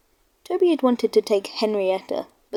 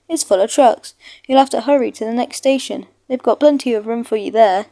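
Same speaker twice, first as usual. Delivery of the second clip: louder, brisk official; brisk signalman; 5 dB louder than usual. Acted. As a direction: order the engine on its way. Signalman refuses the siding.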